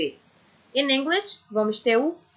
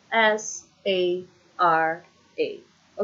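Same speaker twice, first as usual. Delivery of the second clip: spelled slowly; 3 semitones lower, much slower than usual. Shown as a demonstration. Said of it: "Spell your name".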